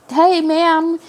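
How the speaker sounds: mock call to a sleeping woman. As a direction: call out to get her attention. Coworker calling out to the lady.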